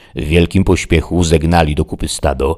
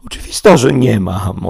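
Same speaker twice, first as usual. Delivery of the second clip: higher, sarcastic servant; Sancho the squire; 7 semitones higher, 6 dB louder than usual. Acted. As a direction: retort with wounded irony. Sancho answers Don Quixote.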